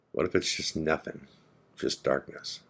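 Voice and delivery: softly retold friend's fear of nothingness; hushed dread. Dying friend voices his dread.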